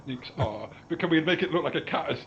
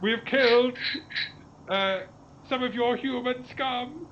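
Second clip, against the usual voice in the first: booming arrogant alien overlord; 9 semitones higher, slower than usual. Pretend. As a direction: threaten like a cartoon alien. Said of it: "And then say".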